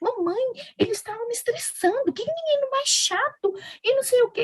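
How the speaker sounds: put-on high, childlike little-girl voice.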